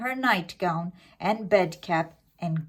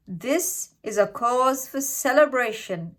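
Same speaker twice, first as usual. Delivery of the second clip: exclaimed; 5 semitones higher than usual. Acted. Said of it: "exclaimed Grandma".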